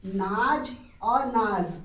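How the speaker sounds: नाज और नाज, slow, first with ज then with nuqta ज़; nuqta contrast demo. Shown as a demonstration. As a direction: say नाज twice, slowly, once plain ज and once with the nuqta buzz. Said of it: "उच्चारण वैसे ही".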